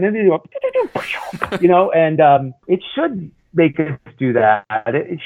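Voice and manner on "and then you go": slow, high mock explosion sound; explosion noises. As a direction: pew pew like a kid playing. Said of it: "making explosion noises".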